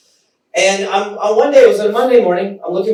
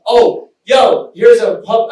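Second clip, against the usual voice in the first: higher, raised-voice interjection; excited interruption; 4 semitones higher, 4 dB louder, slower than usual. Retold or imitated. Friend interrupting a flirtation to show a video, excited. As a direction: burst in like an eager friend.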